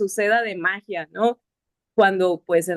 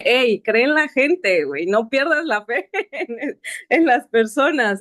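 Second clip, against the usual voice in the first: God's voice; 4 semitones higher than usual. Retold or imitated. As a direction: play God nudging her kindly, half laughing. Dios le habla, voz imitada. (voz de Dios, más aguda y fuerte, con una risa)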